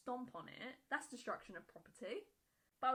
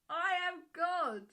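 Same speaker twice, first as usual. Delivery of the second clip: mocking echo; 6 semitones higher, 9 dB louder, slower than usual. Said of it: "mocking the mother's claim".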